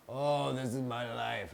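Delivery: slow, drawn-out "oh" of giving up; mock resignation. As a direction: imitate someone wallowing, stretching the words. Voicing someone giving in to circumstances.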